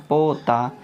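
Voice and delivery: पोता with a long held first o; slightly stretched. Shown as a demonstration. Teacher showing students the reading, slightly stretched. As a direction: draw out the o in पोता. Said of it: "थोड़ा सा खींच के पढ़ेंगे".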